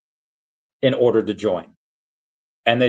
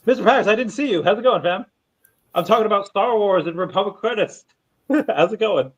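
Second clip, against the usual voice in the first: excited greeting; 9 semitones higher than usual. Real, not acted. Greeting a caller who joins.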